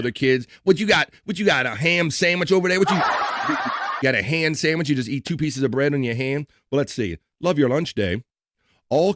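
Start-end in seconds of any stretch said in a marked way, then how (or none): 0.6-6.5 put-on bully kid. Mocking kid at school lunch.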